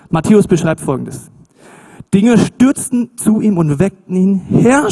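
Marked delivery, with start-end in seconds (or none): 4.5-4.9 lauter und höher, flehend um Hilfe; „Herr" wie im Notruf rufen; verzweifelter Schrei. Retold or imitated. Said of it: "schrien sie". (Jünger im Sturm rufen Jesus, hilfesuchend geschrien)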